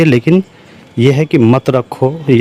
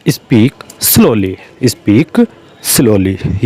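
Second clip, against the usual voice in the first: slow dictation; 3 semitones lower, much slower than usual. Shown as a demonstration. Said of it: "teacher repeats phrase for learners".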